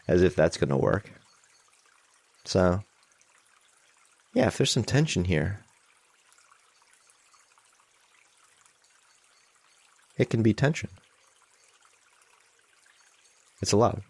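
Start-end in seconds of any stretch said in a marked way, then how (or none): 2.4-14.0 measured meditation guidance with long pauses; guided meditation. Real, not acted. Teacher leading an online group in calming anxiety, guided meditation. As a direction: guide them gently, leaving long silences.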